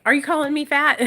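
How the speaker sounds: loud, indignant mock outrage; mock offended. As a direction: act insulted, pushing the last word. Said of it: "why I was like".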